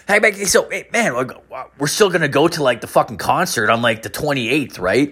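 lightly voiced hopeful buddy; buddy's voice. Buddy asks about concert plans.

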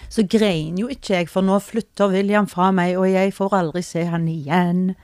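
slightly churchy, measured delivery; a touch of solemn standard-Norwegian preacher; priest in church. Real, not acted. Mother explains her crying to the co-host, faintly priest-like. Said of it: "Nå var du litt sånn presten i".

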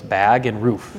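"bag" with a long Minnesotan a, "roof" with a Minnesotan oo; Minnesotan vowels. Shown as a demonstration. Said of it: "the way I say bag and the way I say roof".

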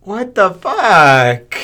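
loud, high, drawn-out shock; appalled outcry. Real, not acted. Host hears of a beheaded puppy, appalled outcry. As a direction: cry out in real disbelief.

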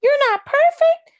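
high, indignant man voice; mock indignant man. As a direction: play an offended man. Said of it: "They be like".

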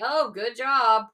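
slow, dry sarcastic praise. Retold or imitated. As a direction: say it like you mean the opposite. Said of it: "my husband said sarcastically".

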